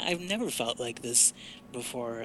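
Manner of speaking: ordinary talk, nothing marked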